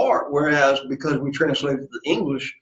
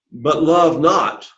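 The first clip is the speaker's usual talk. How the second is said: "love" drawn out slowly and stressed; emphasis on love; much slower than usual. Shown as a demonstration. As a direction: stretch "love" for weight, very slowly. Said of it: "you hear the emphasis here".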